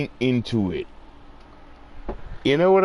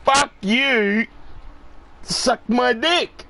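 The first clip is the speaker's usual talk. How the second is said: defiant attitude; 9 semitones higher, slower than usual. Retold or imitated. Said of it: "That's my attitude".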